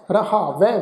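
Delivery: ਰਹਾਵੈ ending in open "ai", not "e". Shown as a demonstration. Teacher shows the dulavan sign, open ai ending on ਰਹਾਵੈ. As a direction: open the final vowel of ਰਹਾਵੈ to ਐ. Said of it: "ਵਾਵੇ ਦੇ ਉੱਪਰ ਦੁਲਾਵਾਂ ਦਾ ਪਾਠ".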